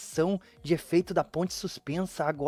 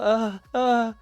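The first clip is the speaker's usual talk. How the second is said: trembling; 4 semitones higher than usual. Acted. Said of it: "se tremendo toda".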